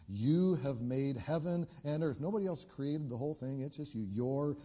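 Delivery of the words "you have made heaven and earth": slow prayer reading. Acted. Prayer read.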